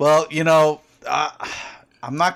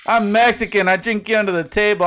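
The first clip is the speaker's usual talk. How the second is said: mock proud boast; 5 semitones higher than usual. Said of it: "And I said".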